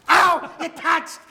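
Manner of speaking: sudden high yelp; startled yelp. Real, not acted. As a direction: jolt at the touch. Reacts to tongue touching.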